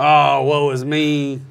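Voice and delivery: mock whiny Australian accent, slow; a bad Australian accent lamenting; hammed-up Australian accent, drawn out; poor Australian accent. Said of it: "that's my poor Australian accent".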